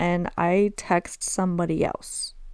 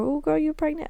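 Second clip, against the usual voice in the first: prying lady; 8 semitones higher than usual. Retold or imitated. Imitating lady asking if pregnant.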